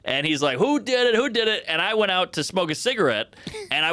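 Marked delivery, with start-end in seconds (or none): 0.6-1.6 higher-pitched irate questioning; mock angry demand. Car owner demanding the culprit, mock anger. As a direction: imitate an angry guy hunting the culprit.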